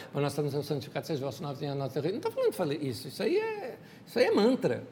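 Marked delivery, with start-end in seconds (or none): 0.1-2.1 fast, low, run-together recital; mock mechanical praying; rote memorized prayer. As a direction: rattle it off as if by heart. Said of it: "daquela oração decorada".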